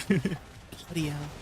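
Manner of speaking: slow, soft Aussie bloody hell, laughing through it; mock Australian accent, laughing. Shown as a demonstration. Streamer tries an Australian saying for chat, slow laughing Aussie accent. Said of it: "Teach me some Australian sayings".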